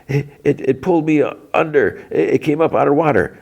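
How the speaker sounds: high-pitched imitation of a panicked boy; retold choked panic. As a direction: stammer it high, like a half-drowned kid. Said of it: "Will's, like, coughing out water".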